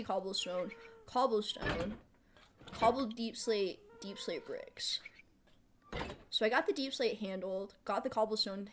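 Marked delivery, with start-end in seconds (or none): 4.0-5.0 whisper. Real, not acted. Reading list, trailing.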